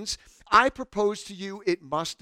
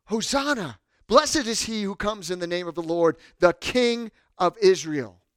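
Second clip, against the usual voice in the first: raised-voice acclamation; crowd crying out; 4 dB louder than usual. Acted. Crowd hailing Jesus as King, crying out. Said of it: "what are they crying out".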